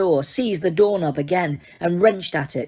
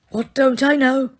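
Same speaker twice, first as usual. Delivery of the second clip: calm; 8 semitones higher than usual. A narrator's reading. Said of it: "asked Dumbledore calmly".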